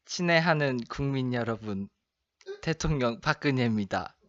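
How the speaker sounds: Park Geun-hye impression. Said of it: "그 대통령 박근혜".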